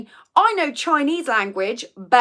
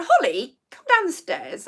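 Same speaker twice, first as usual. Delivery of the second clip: calling upstairs; 7 semitones higher than usual. Retold or imitated. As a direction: call her down. Calling daughter downstairs.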